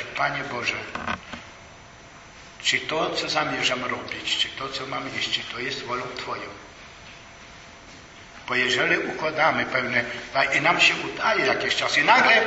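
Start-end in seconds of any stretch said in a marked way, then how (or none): 0.0-6.6 humble quiet prayer. Acted. Models a prayer to God.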